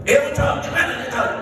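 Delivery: mock Batak shout, pitched high; Batak accent. Imitating a Batak man inviting someone to eat, Batak accent. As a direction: call out like a Batak host. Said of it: "orang Batak ... ngajak makan pakai teriak".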